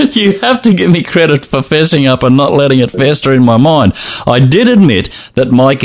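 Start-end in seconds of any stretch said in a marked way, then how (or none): 0.0-3.9 laughing through the line; words bubbling with laughter. Real, not acted. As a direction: say it while cracking up.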